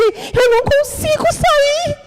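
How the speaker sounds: high, slow, breaking cry; crying out helplessly; tearful plea. Retold or imitated. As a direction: beg through tears. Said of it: "e eu disse".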